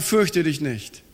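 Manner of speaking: low, soft and slow, gently settling a frightened listener; calm reassurance. Acted. God quietly reassures the anxious believer, low and slow. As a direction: ease the fear, quietly and slowly.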